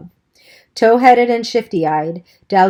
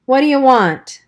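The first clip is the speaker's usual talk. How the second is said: higher, louder rude challenge; gruff demand; 6 semitones higher, 4 dB louder than usual. Acted. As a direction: bark it at the kids at the door. Buck glares at visitors.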